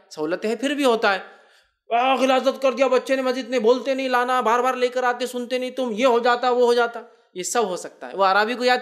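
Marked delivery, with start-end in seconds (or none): 1.9-7.0 disgusted complaint. Retold or imitated. Complaining worshippers.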